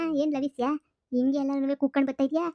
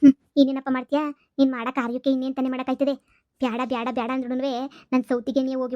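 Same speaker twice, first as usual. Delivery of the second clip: angry scolding; 3 semitones higher, 4 dB louder than usual. Acted. Mother scolding her son over helping her rival, angrily. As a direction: snap at him for shaming the family.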